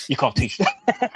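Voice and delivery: each word drawn out slow; slow mock emphasis. Mocking a fighter's loyalty speech, said slowly. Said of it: "slow mock emphasis".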